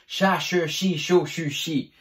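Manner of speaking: cha, che, chi in separate, even beats; measured articulation drill. Shown as a demonstration. Teacher showing C H with every vowel, measured demonstration. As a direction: give each syllable its own unhurried beat. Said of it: "Avec le C H".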